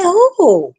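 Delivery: surprised "Who?". Retold or imitated. Surprised question.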